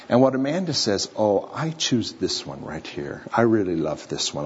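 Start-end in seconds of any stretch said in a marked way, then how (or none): 1.1-4.4 softer, lower, lingering affection; quietly smitten, lightly acted; imitated tender choice. Girl picking her favorite puppy, imitated tenderness.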